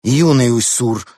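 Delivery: sharp telling-off; cross. A narrator's reading. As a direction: call out the cub's name sternly. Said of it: "рассердилась Клара".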